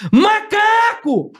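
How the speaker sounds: long high drawn-out yell; tic shout. Shown as a demonstration. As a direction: stretch the word out slowly, high and long. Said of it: "Era o dia inteiro assim, ó".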